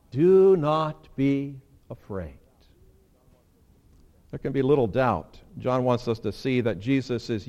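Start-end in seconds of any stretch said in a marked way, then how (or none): 0.1-2.4 "Do not be afraid" drawn out slow, each word weighted; slow solemn. Shown as a demonstration. God comforting his terrified people, slow and solemn. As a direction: speak it slowly, as God would. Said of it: "What does he say to them?".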